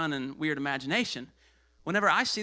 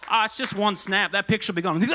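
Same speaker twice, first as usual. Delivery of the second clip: tempting flesh voice; 2 semitones higher, 6 dB louder than usual. Retold or imitated. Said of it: "it's like".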